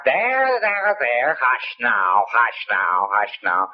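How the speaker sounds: lightly voiced nurse hushing a crying baby; mock nurse soothing. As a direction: imitate a nurse cooing to a baby.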